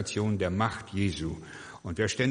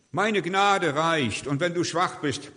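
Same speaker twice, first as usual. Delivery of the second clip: loud, high, very slow proclamation; booming divine reply, drawn out; God's answer; 7 semitones higher, 4 dB louder, slower than usual. Acted. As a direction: declare it slowly with full force. Voicing God's answer to Paul.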